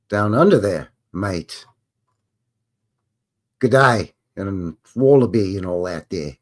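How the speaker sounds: put-on lightly done Australian accent, close to his own voice; a playful, so-so Aussie accent; B minus Australian accent. Answering an Australian viewer about a trip to Oz, light mock Australian accent. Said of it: "another B minus impression of a Australian accent".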